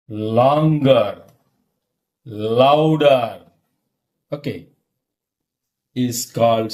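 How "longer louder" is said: LONGER and LOUDER each stretched out with a weighty fall; drawn-out emphasis. Shown as a demonstration. Teacher defining stress for learners, LONGER and LOUDER said long and emphatic. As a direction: stretch LONGER and LOUDER to act out their meaning.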